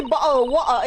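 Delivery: put-on English accent with dropped consonants; mock English accent. Shown as a demonstration. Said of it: "the moment they say".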